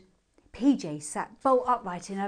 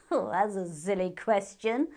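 airy hare. A narrator's reading. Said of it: "answered the moon hare".

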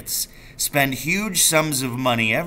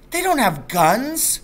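alarmed; 11 semitones higher, slower than usual. Acted. Boy denies in alarm.

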